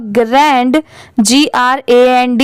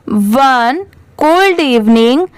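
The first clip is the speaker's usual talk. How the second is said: repeat-after-me reading. Shown as a demonstration. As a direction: model reading for learners. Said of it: "मेरे बाद आप repeat करिए".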